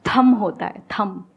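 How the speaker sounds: "थम" said with no B, ending on m; silent B. Shown as a demonstration. Teacher showing the student the word, silent B. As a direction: close "थम" on the m, dropping the B. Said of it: "या बी silent".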